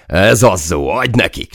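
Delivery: loud, high, elated shout; joyful cheer. A narrator's reading. Soldier joining the cheer for the gunner, joyful. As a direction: cheer on a comrade with glee. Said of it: "csatlakoztam én is örömömben".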